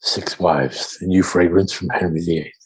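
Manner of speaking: whisper-sell it like cologne; sultry perfume ad. Pretend. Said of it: "making shit perfume commercials".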